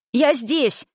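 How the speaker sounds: put-on girl shouting to her father; loud shout. A narrator's reading. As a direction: call out Я здесь loudly. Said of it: "закричала Саша так громко".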